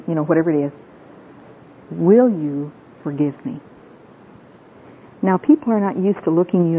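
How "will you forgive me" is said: slow, deliberate plea for forgiveness; measured, sincere asking; earnest request. Shown as a demonstration. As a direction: ask it directly and sincerely. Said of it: "look them in the eye and say".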